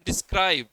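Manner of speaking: डिस्क्राइब with light डि, stronger स्क्राइब; stress on second syllable. Shown as a demonstration. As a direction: save the weight in डिस्क्राइब for स्क्राइब. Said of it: "स्क्राइब बाद में ज़्यादा सुन रहा है".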